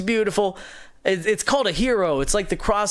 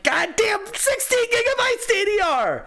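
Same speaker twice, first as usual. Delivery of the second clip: much higher, fed-up groan of words; exasperated outburst. Retold or imitated. Builder cursing the pricey RAM, exasperated. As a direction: spit out the RAM name in disbelief. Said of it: "I'm like".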